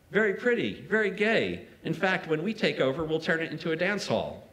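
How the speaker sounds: teasing Aragon. Retold or imitated. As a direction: lift the pitch and push the volume to play Aragon's jab.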